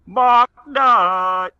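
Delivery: triumphant. Acted. Triumphant dad fixing tire.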